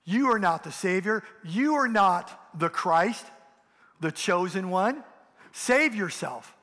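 a mild mock taunt, slowing on Save yourself; mocking jeer. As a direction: sneer it the way the rulers did, lightly acted. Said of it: "they're mocking".

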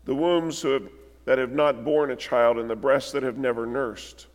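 measured, solemn reading of the passage; scripture reading. Acted. Preacher reading scripture to the church, solemn and measured. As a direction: read the Gospel to the congregation gravely. Reads Luke's crucifixion account aloud.

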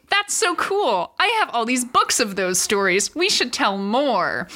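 a thrilled mom, drawn out; excited mom. Retold or imitated. Mom voiced in a story.

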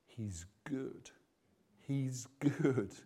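sudden soft, tender answer; hushed reverence. Acted. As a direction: drop right down and let it land gently. Hushed answer to loud list.

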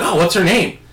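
high, bright fake excitement; mock enthusiasm. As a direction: play along, faking interest. Teasing the kid on the phone.

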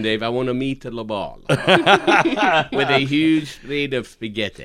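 slow, hammed-up Italian accent; mock Italian accent. Joking on the podcast, a slow mock Italian accent. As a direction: play it like a goofy Italian chef, Italian accent. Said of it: "speaking in accents the entire podcast".

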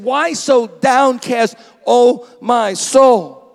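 slow, loud lament to his own soul; a psalmist crying out, slow and loud; anguished cry. Acted. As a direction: call out slowly in anguish. David cries out to his soul.

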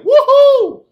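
high, loud whooping cheer; a mocking imitation of Stillwater fans cheering a narrow win. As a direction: whoop like a celebrating fan. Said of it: "Stillwater's like".

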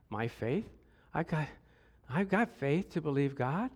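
low, soft mock protest; defensive protest. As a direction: play the wounded believer under your breath. Voicing believers who dodge blame.

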